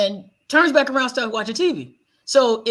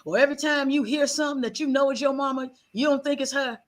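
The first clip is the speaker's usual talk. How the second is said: mildly raised, a hint of a blunt grandmother; granny scolding; 2 semitones higher than usual. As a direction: set her straight like granny, lightly played. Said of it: "She said".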